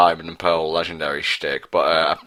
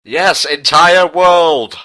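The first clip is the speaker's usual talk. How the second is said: slow, grand, booming proclamation; booming dramatic voice; 9 semitones higher, 7 dB louder, much slower than usual. Pretend. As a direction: announce it like an epic trailer. Dramatic movie line mockery.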